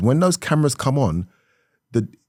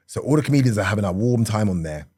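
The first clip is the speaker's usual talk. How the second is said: normal talking voice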